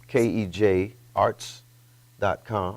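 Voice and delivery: slow, careful repeat of kedge arts dot com, letter by letter; slow spelled repeat. Shown as a demonstration. Guest repeats kedge arts dot com for the host, slow and careful. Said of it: "Say it again".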